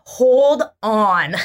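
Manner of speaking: calling to the crying fan over the fence; called out. Retold or imitated. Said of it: "And I'm like".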